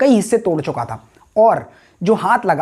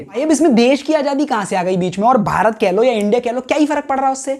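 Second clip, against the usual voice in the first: higher-pitched voice of an unconvinced viewer; sceptical objection; 4 semitones higher than usual. Acted. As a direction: object like a doubter butting in. (शक करते दर्शक जैसी आपत्ति)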